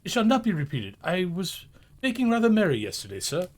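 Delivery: timid clerk pleading with his employer. A narrator's reading. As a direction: beg the boss for mercy. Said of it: "pleaded Bob".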